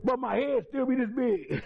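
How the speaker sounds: chuckling through the words; amused, half laughing. Real, not acted. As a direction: laughs at himself while saying it. Laughing at his own big head.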